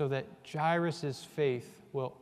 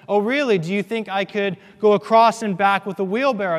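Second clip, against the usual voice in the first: Blondin; 6 semitones higher, 11 dB louder, faster than usual. Retold or imitated. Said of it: "So Blondin says".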